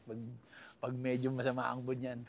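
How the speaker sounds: ordinary delivery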